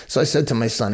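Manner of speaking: usual speaking voice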